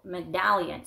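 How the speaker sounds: medallion stressed on DAL; stress on second syllable. Shown as a demonstration. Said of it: "accent is on the second syllable".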